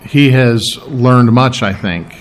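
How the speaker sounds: slow, measured prayer with long pauses; earnest, deliberate pastor's prayer; spoken prayer. Real, not acted. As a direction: pray aloud unhurriedly, searching for each phrase. Leads the congregation in prayer.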